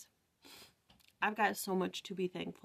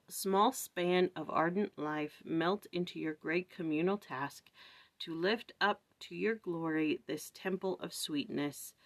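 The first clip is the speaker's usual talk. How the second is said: slow, solemn reading of a prayer poem; slower than usual. Acted. Reading the bee's prayer to viewers, slow and solemn. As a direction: read each line slowly like a prayer.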